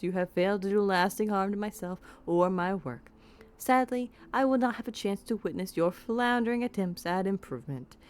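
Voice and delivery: put-on amateur, theatrical Southern accent. Mage dismissing his apprentice by letter, put-on Southern accent. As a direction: read it out in a hammed-up Southern accent. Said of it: "We Southerners don't sound like that".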